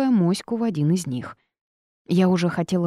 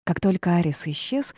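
plain reading voice

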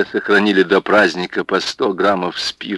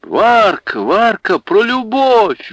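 much higher, louder calls; eager calls; 14 semitones higher, 4 dB louder, slower than usual. Acted. Women urging Варвара to sing, eager. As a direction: urge her on eagerly. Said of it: "вдруг ожили жонки".

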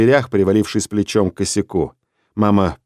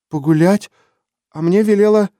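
put-on much higher, a scared small girl's voice; frightened little girl; 9 semitones higher than usual. Little Lena asks her father, scared, in a much higher voice. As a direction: ask like a startled child.

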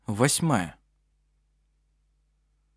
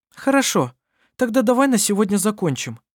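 raised, carrying voice meant to be overheard; loud; 10 semitones higher, 3 dB louder than usual. Acted. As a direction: say it loudly for the eavesdropper. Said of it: "громко произнесла Анна-Мария".

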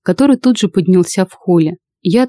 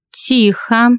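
sharp command; 4 semitones higher than usual. Acted. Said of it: "Резкий голос Фёклы".

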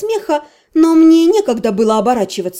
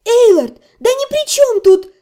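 trying to shout over; 10 semitones higher than usual. A narrator's reading. Вики пытается докричаться до разъярённого мага. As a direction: cut through his ranting. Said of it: "попыталась я докричаться".

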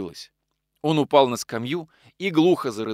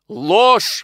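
sharp loud cry of protest; exclaimed; 9 semitones higher, 10 dB louder than usual. A narrator's reading. Nikolai bursts out to Anna in anger, loud cry. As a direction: shout it out in outrage. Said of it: "воскликнул он".

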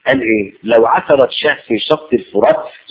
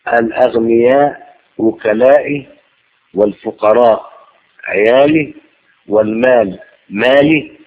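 solemn slow recitation; 3 semitones lower, slower than usual. Acted. Reciting a divine saying.

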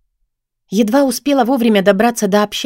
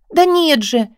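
near tears; 7 semitones higher, slower than usual. A narrator's reading. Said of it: "хотелось плакать".

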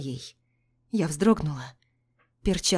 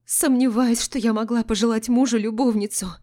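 confident; 5 semitones higher, 5 dB louder than usual. A narrator's reading. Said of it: "уверенным голосом произнесла я".

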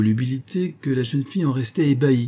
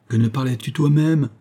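a somewhat louder, higher comeback; piqued retort; 4 semitones higher, 4 dB louder than usual. Acted. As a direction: snap back, stung by the criticism. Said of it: "répliqua le chantre vexé". (réplique vexée, un peu plus forte)

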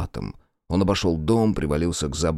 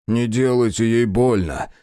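pleading; 3 semitones higher, 4 dB louder than usual. Acted. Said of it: "взмолился отец".

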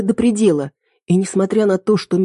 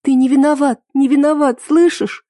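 сквозь слёзы; 8 semitones higher than usual. A narrator's reading. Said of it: "разрыдалась тоже".

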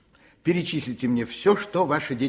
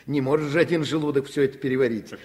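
laughing; 5 dB louder, faster than usual. Acted. Doctor mocks overfeeding, laughing.

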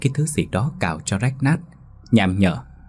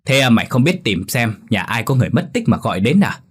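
mild hiss; 3 semitones higher than usual. Acted. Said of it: "bác Tân rít lên".

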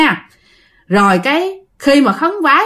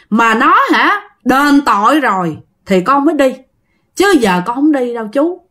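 lightly voiced, higher-pitched ghost; politely but firmly refuse an elder; respectful but stubborn ghost; 3 semitones higher than usual. Ghost refusing uncle Bảy's plea, respectful but stubborn.

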